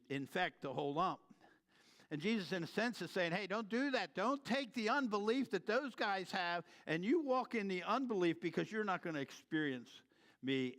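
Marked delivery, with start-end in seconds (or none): 3.3-10.8 urgent plea. Acted. Jesus urging disciples in sermon.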